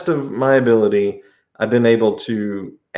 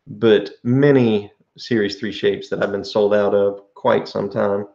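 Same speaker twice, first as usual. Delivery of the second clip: pipe in mouth. Real, not acted. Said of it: "let me relight my pipe".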